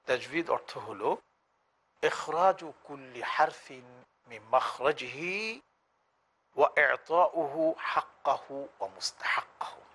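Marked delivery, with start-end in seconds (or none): 2.0-9.8 slow measured Arabic definition recital; Arabic recitation. Shown as a demonstration. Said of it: "সেই সংজ্ঞায় বলা হচ্ছে". (ধীরে আরবি সংজ্ঞা আবৃত্তি)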